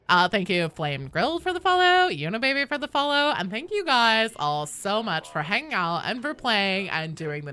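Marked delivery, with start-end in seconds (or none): 0.1-5.4 put-on upbeat Valley Girl shout-outs; sing-song Valley Girl reading. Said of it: "in the Valley Girl voice".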